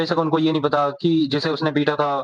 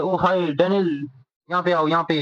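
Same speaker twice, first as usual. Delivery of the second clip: lightly voiced schoolgirl calling out sweetly; sweet girl calling; 3 semitones higher than usual. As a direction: draw him over sweetly, stretching the greeting. Girl sweetly calls Daniel over.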